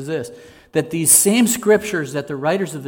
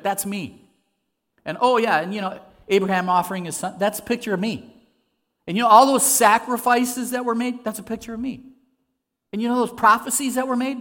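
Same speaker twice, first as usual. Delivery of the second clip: higher, animated imagined Jesus, building to a louder peak; excited Jesus explaining; 4 semitones higher, 4 dB louder than usual. Acted. Preacher imagines Jesus walking through the scriptures, excited. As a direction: act out Jesus eagerly pointing himself out, pitch climbing. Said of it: "And so Jesus must have said".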